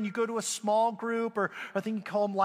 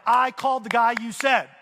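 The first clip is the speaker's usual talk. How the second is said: exasperated retort; 2 semitones higher, 5 dB louder than usual. Retold or imitated. Exasperated retort to pool man.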